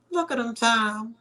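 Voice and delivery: high, lightly voiced parent calling out; imitating a parent pointing out the sleepy child; mock parent exclaiming. Parents teasing their sleepy son, high mock voice. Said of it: "My parents used to always say".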